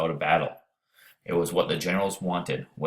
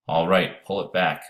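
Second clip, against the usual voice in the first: louder call across the river; 4 dB louder than usual. Acted. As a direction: call it over to the boy. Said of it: "he called".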